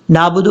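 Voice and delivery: 'نعبد' as a smooth naabudu; dropped ain. Shown as a demonstration. Teacher explains the mistake, mistaken recitation. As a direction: run 'نعبد' together without ع. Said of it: "عین غلط چھوڑ رہی ہے".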